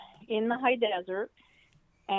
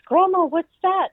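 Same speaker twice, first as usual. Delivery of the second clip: put-on higher, louder little-girl question; startled child's question; 10 semitones higher, 8 dB louder than usual. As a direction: voice the toddler asking grandma what the noise is. Toddler granddaughter voiced in story.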